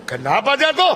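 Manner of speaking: high acted interrogation; insistent questioning. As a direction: demand an answer, pitch climbing. Acted questioning of the fallen man.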